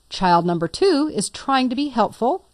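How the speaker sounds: hint that "trying" is doing the heavy lifting; stress on trying. Shown as a demonstration. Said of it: "emphasis on the word trying".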